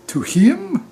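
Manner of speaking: squeaked-up high disbelieving question; as if the idea is absurd; mock astonished gypsy; incredulous. Gypsy points at Tom, incredulous.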